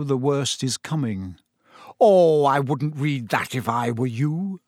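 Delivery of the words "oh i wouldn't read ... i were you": light. A narrator's reading. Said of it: "said the manager lightly".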